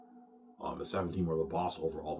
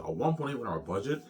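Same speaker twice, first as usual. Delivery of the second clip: shocked echo; 6 semitones higher, 3 dB louder than usual. Retold or imitated. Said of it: "he's shocked".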